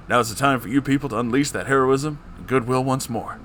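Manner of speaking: a bad Obama rallying the people; terrible Obama impression. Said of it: "in my terrible Obama impression".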